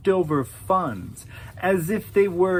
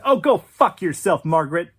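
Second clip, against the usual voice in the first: loud snarled insult; higher, louder parting insult at Margaret; angry curse; 3 semitones higher, 6 dB louder, faster than usual. Acted. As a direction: fling the curse at her. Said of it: "Patrick couldn't help himself".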